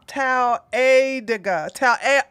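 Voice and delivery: slow, halting try at "taladiga"; unsure attempt at saying "taladiga"; botched pronunciation. Real, not acted. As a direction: sound out "taladiga" piece by piece and stumble. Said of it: "that's not how you pronounce it".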